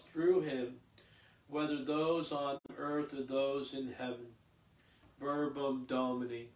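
measured liturgical reading voice; formal lectern reading of scripture. Acted. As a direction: proclaim it clearly to the congregation. Lector proclaims the readings.

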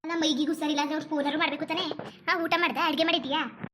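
lightly voiced older neighbour, a little low; concerned aunt. Visiting aunt asking if she is unwell, mildly concerned. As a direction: ask with an aunt's mild concern.

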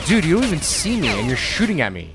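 loud, indignant complaint at the enemy; angry outburst. Real, not acted. Gamer yelling at an enemy who shoots him, angry and loud. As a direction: yell at the unseen shooter.

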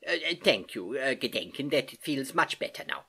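put-on accented uncle, hesitant and a little flustered; grateful Uncle Albert. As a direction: stammer out thanks as the old uncle. Uncle Albert thanks his niece.

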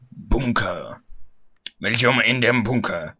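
put-on German, punched out loud; mock-German announcement voice; German pronunciation. Shown as a demonstration. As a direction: bark it out in German. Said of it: "pronounce it German".

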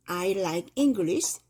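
I like English drawn out very slowly; slow example. Shown as a demonstration. Teacher reading example to learners, very slow. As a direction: read it word by word.

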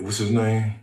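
ordinary talk, nothing marked

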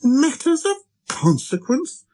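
very high, slow incredulous question; little prince, thunderstruck. A narrator's reading. Little prince echoing the pilot's excuse, thunderstruck. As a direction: echo it slowly in stunned disbelief. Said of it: "He stared at me, thunderstruck".

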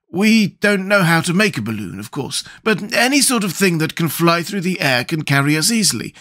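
a straw man pleased with his brains; Scarecrow voice. Acted.

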